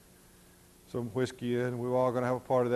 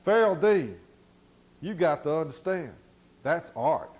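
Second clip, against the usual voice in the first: higher, louder call across the room; yelling across; 4 semitones higher, 5 dB louder than usual. Retold or imitated. Young mason yelling to the foreman in the trailer, loud. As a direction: yell it over from the corner, half defiant. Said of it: "he yells over at the foreman".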